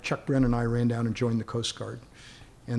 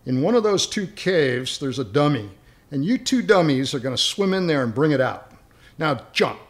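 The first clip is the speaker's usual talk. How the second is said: louder, barked mock orders; imitating the helicopter crew; 2 semitones higher, 6 dB louder than usual. Rescue crew ordering the swimmers to jump, louder mock orders. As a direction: play the crew sending the swimmers into the cave. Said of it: "and they go".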